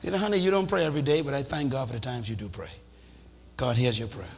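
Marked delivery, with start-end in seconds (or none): 0.0-2.3 encouraging wife. Retold or imitated. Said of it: "You'd encourage him to pray".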